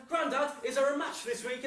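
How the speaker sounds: high, excited question; acted little kid's plea; eager child. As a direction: pester granddad with keen hope. Eager child asking granddad again.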